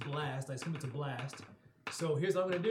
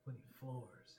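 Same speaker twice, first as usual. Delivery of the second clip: deflated mutter; dismayed, quiet; 6 semitones lower, 15 dB quieter, slower than usual. Real, not acted. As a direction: sigh it out in dismay. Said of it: "repeats flat dismay".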